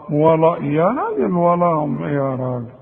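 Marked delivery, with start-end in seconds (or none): 1.3-2.0 "ولهم" with dark, thick "law"; wrong heavy lam. Retold or imitated. Teacher mocking a common misreading, heavy waw and lam. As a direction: drag "ولهم" heavy, as the mistake. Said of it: "عاوزك ترقق الواو واللام".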